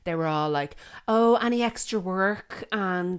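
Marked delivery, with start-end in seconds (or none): 1.1-2.6 lightly mimicked eager parent, higher pitch; a touch of mock keenness; overkeen parent.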